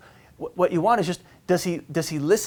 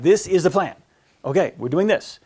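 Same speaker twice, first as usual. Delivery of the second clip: firm decision; 3 semitones higher, 4 dB louder than usual. Shown as a demonstration. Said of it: "You've gotta choose".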